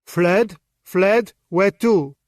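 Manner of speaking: loud, sharp disbelief; stunned loud questioning; incredulous. A narrator's reading. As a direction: fire the word back twice. Anno incredulous.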